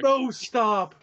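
screaming at a spider. Real, not acted. Spider on the wall.

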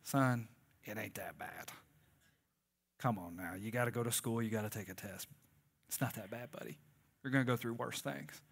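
soft, hushed fatherly whisper; calm the boy down, almost whispering; dad soothing his son quietly; gentle father. Retold or imitated. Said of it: "I'm just like".

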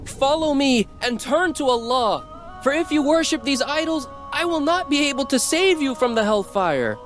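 high, pleading call that breaks; voice cracking. A narrator's reading. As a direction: let the voice crack on the warning. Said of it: "His voice cracked".

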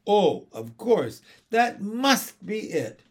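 slow, emphatic bright realization. A narrator's reading. Mother seizing on teething as answer, brightly. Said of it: "said Missus Banks brightly".

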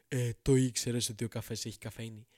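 smug voice of a preachy friend; mock know-it-all. Mocking the non-coffee preacher.

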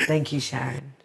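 low-key thanks. Retold or imitated. Thanking Sharon for the grout lesson, low-key. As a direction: say it down low, almost to yourself. First, private thanks to her teacher.

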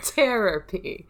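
slow "Therapy", hard T as in terror; terror pun. Shown as a demonstration. Answering co-host's spelling question, "Therapy" as slow terror-py. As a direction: sound out "Therapy" as "terror-py", drawn out. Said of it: "With an H in there?".

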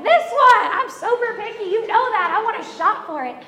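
high, very loud indignant protest; retold rampage. Wife protests she wanted to shop for furniture, loud indignation. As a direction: yell it in hammed-up outrage. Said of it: "I was just on a rampage".

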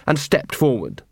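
ordinary delivery

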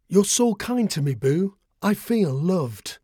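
a blind bird thanking her friend; grateful bird, tender. A narrator's reading. Scarlet's voice, held.

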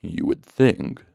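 slow smooth honeyed voice; thick honey voice. Acted. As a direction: roll it out slowly like honey. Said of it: "voice rolled out like thick honey".

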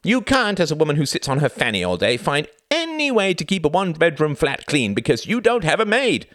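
high, loud, outraged rant; shouted retort. A narrator's reading. Husband berates wife over housework and money, shouting. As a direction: hammer her with indignant accusations. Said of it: "shouted Reginald".

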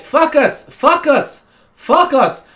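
put-on high, insistent "fuck us" for focus, German-accented. German teacher answering pupil's big question, insistent accent. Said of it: "so she'd say focus".

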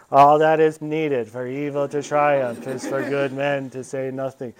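slow, measured, grave pronouncement; Father John echoing. Retold or imitated. Remembered priest's maxim haunting him at the game. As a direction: intone it slowly, as a voice in your head.

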